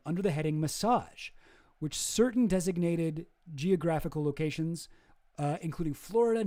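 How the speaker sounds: steady, slightly formal reading voice; reading a quote aloud. Acted. Narrator reading from Brad Edwards' book, in a steady formal voice. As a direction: read the passage out like testimony.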